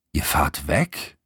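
slow, incredulous repeat; puzzled echo question. A narrator's reading. Best friend hearing of the trip, surprised. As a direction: draw it out in surprise.

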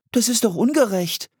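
put-on high-pitched girlish protest; indignant cry. A narrator's reading. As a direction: cry out at the unfairness. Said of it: "rief Anne".

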